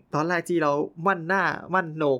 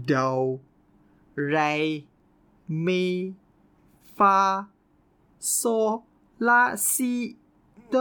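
put-on Chinese accent; 4 semitones higher than usual. Imitating Chinese choir singers saying do re mi in a Chinese accent. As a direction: do re mi spelled out one by one in a Chinese accent. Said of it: "แต่เป็นสำเนียงจีน".

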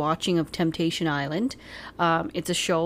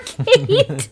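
much higher, louder, laughing accusation; laughing tease; 9 dB louder than usual. Real, not acted. Woman teasing partner for not reciprocating, laughing. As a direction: burst into laughter on the word.

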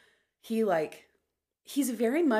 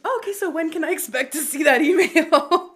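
mock sweet pointed question; 9 semitones higher, 10 dB louder than usual.

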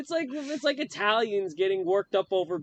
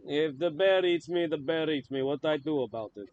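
lightly attempted Russian accent; amateur comic Russian accent. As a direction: shrug it off in a rough Russian accent. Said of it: "I can't do a Russian accent that good".

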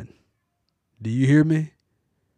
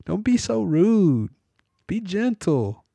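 much higher, gentle scolding wife voice; wife telling her husband to be kinder, higher voice; imitating his wife; 8 semitones higher than usual. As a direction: pitch up and play the gently chiding wife. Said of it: "She's always talking like that".

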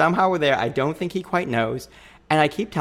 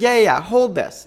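hurried dismissal; 8 semitones higher, 6 dB louder than usual. Retold or imitated. Brushing off his questions.

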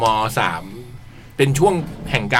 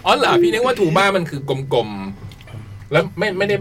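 laughing; 6 semitones higher, much slower than usual. Real, not acted. Laughing after the bass joke.

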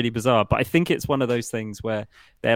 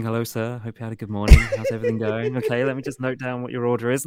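mock polite waiter; faster than usual. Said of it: "I'm not coming to you in the morning".

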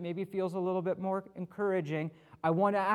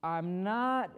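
slow, halting take on Moses; a light hint of Moses, dragging the words out; lightly voiced Moses, slow and unsure; acting like Moses; 2 semitones higher, slower than usual. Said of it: "I tried to be like Moses".

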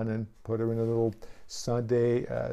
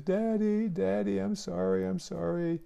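higher-pitched pleading child, mildly imitated; retold tearful apology in a raised voice; crying little girl; 5 semitones higher than usual. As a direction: plead like a sorry child, lightly acted. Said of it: "And she's crying. She says".

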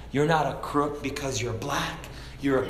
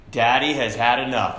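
daddy voice; 4 dB louder than usual. Shown as a demonstration. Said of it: "When the daddy voice comes out".

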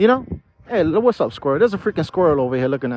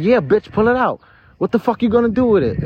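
raised, taunting shout; angry yell; 7 semitones higher than usual. Retold or imitated. Retold yelling at gunman.

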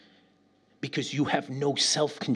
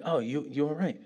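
retold reassurance; 3 semitones lower, 6 dB quieter, faster than usual. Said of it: "And they're like".

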